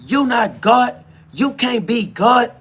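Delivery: imitating people who deny he is God; mocking doubters. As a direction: mimic the naysayers scolding. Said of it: "they're like".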